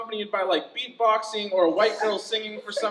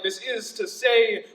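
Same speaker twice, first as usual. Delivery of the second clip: slow, emphatic poetic cliché; drawn-out slam cliché; overused poetic phrase; slower than usual. Shown as a demonstration. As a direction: intone it slowly as a tired stock line. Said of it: "same tired-ass phrases like".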